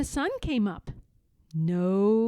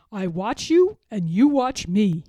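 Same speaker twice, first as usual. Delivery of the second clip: a louder voice for the peddler talking to the monkeys; lightly voiced peddler calling up; peddler's voice; 2 semitones lower, 8 dB louder than usual. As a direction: speak up to the monkeys in the tree. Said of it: "he said".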